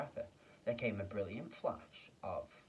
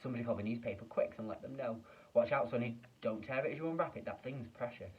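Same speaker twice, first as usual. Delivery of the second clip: excited shouting; 2 semitones higher than usual. Acted. Shopkeeper keeps shouting excitedly.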